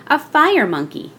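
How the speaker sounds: put-on high, excited little girl; delighted child. Little girl pointing out George to her mother, delighted and high. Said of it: "the little girl laughed and said".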